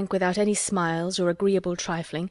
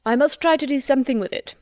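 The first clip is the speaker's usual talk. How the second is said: put-on higher, eager young gentleman; eager gushing squire; 6 semitones higher, 4 dB louder than usual. A narrator's reading. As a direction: gush with delight about the grounds. Rushworth again.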